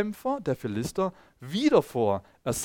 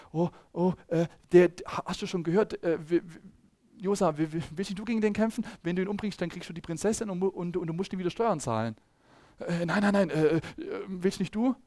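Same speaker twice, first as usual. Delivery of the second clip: quiet, stammering soldiers, pushing the fight onto each other; scared soldiers; 3 semitones higher, 4 dB quieter than usual. Acted. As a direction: stutter it out like mildly frightened men. Frightened soldiers acted out. (leise, stotternde, ängstliche Soldaten)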